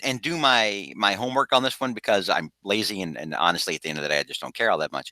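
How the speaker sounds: low, soft deadpan admission; deadpan sarcasm. Real, not acted. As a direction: let it drop into dry, careless sarcasm. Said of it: "all they hear is the deadpan voice".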